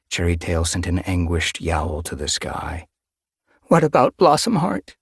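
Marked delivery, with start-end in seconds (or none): 3.6-5.0 anxious question. Acted. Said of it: "she asked anxiously".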